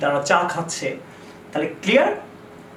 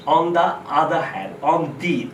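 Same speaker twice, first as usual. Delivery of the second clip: On the other hand in a slow British accent, "the" said as "dee"; British-style "the other" with a drawn-out "the"; much slower than usual. Shown as a demonstration. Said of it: "British অ্যাকসেন্টে বলতে চান". (British উচ্চারণে ধীরে বলা)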